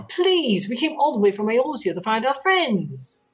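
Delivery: a traveler begging for news of friends; pleading. Acted. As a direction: beg the innkeeper for help. Voices a pleading party member.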